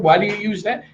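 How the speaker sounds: light high-pitched replay of a question; quoting it high, as in the impression; mirroring his manner. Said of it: "I matched and mirrored how he spoke".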